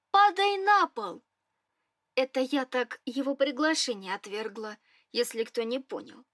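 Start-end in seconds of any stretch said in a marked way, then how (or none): 0.1-1.2 indignant shout. Acted. She rejects his offer.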